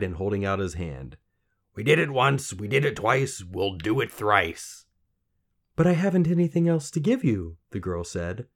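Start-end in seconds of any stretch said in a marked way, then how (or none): 1.7-4.9 higher chanting little-man voice; croaky little man, eager. A narrator's reading. Little man offering help to girl, gleeful. 5.8-7.6 high, loud pleading; distressed girl. A narrator's reading. Girl to little man, desperate.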